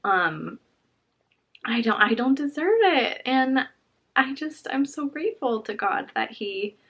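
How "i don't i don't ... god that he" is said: emotional. Real, not acted. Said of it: "I get so emotional when I think about that".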